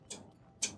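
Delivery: repeated clipped "t-" for the Yorkshire t'. Shown as a demonstration. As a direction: tap out the bare "t-" twice. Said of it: "they mean t".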